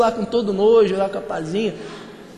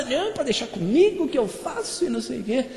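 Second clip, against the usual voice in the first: over-eager promiser; 3 semitones higher than usual. Retold or imitated. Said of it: "Ele que promete, que fala".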